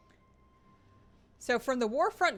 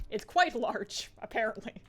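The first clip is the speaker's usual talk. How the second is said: laughing; 4 dB louder than usual. Real, not acted. Same phrase said laughing.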